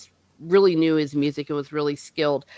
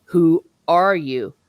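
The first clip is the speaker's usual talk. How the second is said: who are you drawn out slowly and louder; slow louder demand; 5 dB louder, slower than usual. Retold or imitated. Magician demanding Pug's identity, slow and louder. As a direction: press him, slow and heavy. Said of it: "And he says again".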